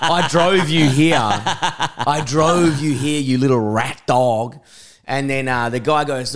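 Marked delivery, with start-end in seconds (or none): 0.0-1.2 louder, slowed, laughing through the words; half-laughing mock outrage; laughing retort. Laughing indignant retort to friend. 1.2-4.6 very slow, stretched, still laughing; mock-outraged slow laughing repeat; drawn-out repeat.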